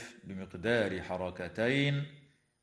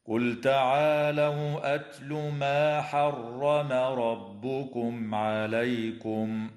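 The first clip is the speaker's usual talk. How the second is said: slow melodic recitation stopping on عليكم; tajweed demo of a good stop; recite with the stop; slower than usual. Shown as a demonstration. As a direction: chant it through and pause at عليكم. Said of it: "هكذا".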